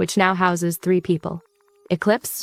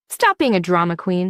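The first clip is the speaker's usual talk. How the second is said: flat. Acted. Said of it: "she says flatly".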